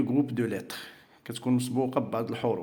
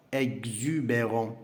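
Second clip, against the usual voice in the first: slow model word; 3 dB quieter, slower than usual. Shown as a demonstration.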